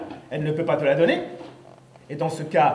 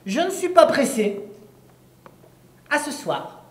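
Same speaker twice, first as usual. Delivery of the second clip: witch's reply; 6 semitones higher than usual. Acted. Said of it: "me dit la sorcière".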